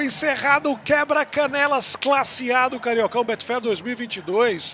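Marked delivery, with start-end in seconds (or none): 0.0-3.6 final whistle call. Real, not acted.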